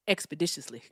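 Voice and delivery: lightly imitated rapper's diction. Shown as a demonstration. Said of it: "here's my T I impression".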